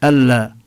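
ألا with a long doubled lam; ألا said alla, lam held. Shown as a demonstration. Teacher isolating the merged syllable. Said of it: "لا يظهر شيء من أثر النون".

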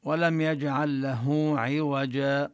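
slow, measured tartil recitation; Quran recitation. Shown as a demonstration. Teacher reciting the verse to his students, slow tartil. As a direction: recite the verse slowly with tajweed. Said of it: "أحيانًا يستثنى من القاعدة أمور".

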